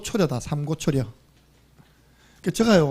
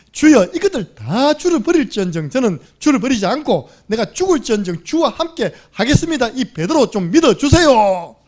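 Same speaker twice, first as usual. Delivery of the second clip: loud, earnest pleading of Peter; Peter's pleading vow; 4 semitones higher, 5 dB louder than usual. Retold or imitated. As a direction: beg to be believed, louder. Peter pleading his loyalty. (베드로가 주께 충성을 맹세하며 크게 간청함)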